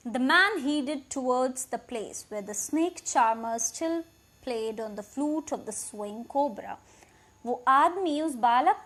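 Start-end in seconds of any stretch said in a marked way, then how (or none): 0.1-6.7 slow, deliberate reading of the English text; slow story reading. A narrator's reading. Teacher reading the English passage aloud, slow and clear. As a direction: read each word out clearly for the class.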